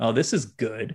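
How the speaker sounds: imitated sarcastic delivery. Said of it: "sarcasm doesn't translate well".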